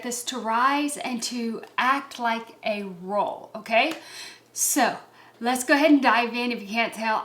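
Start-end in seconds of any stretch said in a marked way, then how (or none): 5.4-6.5 breathless and rushed; talking fast, short of breath. Real, not acted. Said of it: "I'm out of breath".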